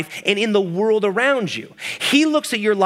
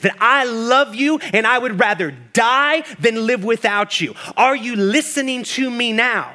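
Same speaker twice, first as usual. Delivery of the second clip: a lightly voiced Jesus, higher and earnest; pleading Jesus; 3 semitones higher than usual. Jesus on the cross asking the listener, lightly voiced and pleading. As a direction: plead gently, slowing on the key words.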